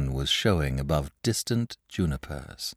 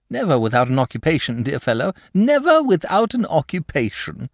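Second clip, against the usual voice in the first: high, chatty dragon voice; a lazy, cheerful dragon confiding; genial dragon; 7 semitones higher than usual. Acted.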